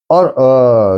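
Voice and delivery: normal talking voice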